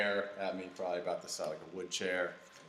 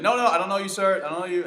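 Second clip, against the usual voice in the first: high, raised-voice re-enactment; retold loud protest; 12 semitones higher, 10 dB louder, faster than usual. Telling the stranger he doesn't know him, retold loud protest. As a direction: fend someone off loudly, as if retelling it.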